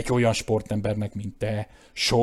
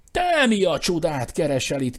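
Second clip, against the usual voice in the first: higher and louder cry, stress on te; shouted; 7 semitones higher, 5 dB louder than usual. A narrator's reading. Eustace shouting back at Claude, higher and loud. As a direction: fling the question back, pitched up. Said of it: "kiáltotta Eustace".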